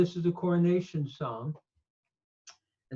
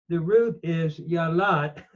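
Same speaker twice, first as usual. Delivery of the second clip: ordinary talk, nothing marked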